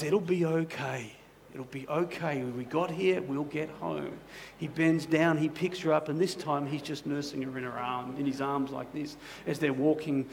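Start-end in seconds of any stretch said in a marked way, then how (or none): 0.0-4.2 put-on calm a frightened child on the way home; a gentle father's murmur; soothing dad. Dad soothing scared daughter.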